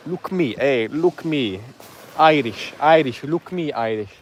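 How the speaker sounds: lightly put-on Somali accent; Somali pirate impression. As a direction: mimic a pirate demanding attention in a Somali accent. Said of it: "We've got some Somali pirates".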